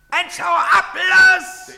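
loud, high yell; angry shout. Acted. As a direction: shout him away. Soldier chases a man off.

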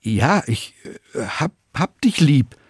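nervous faltering confession; stammering. A narrator's reading. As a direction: stammer it out, lost for words. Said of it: "Und Petrus stammelt".

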